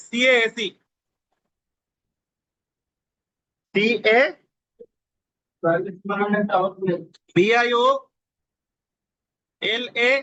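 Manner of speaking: letters called out with long pauses; slow spelling dictation. Shown as a demonstration. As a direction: dictate each letter slowly for note-taking. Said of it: "আমি আস্তে আস্তে বলতেছি". (ধীরে ধীরে অক্ষর বলে লেখানো)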